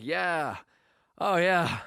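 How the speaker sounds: moans climbing into high fake sobs; hammed-up moaning that breaks into crying; mock bawling. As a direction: imitate pleasure tipping into tears. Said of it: "and starts bawling".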